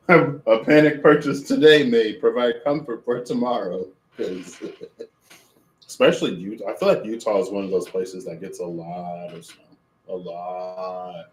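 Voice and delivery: chewing while talking; talking through a mouthful; mouth full. Real, not acted. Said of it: "Could you see the carrot in my mouth?".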